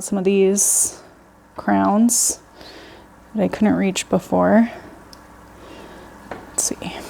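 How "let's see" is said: whispering. Real, not acted. Peering into tank.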